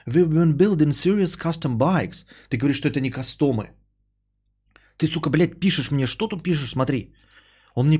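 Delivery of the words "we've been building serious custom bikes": English accent. Shown as a demonstration. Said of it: "могу прекрасно прочитать это с английским акцентом".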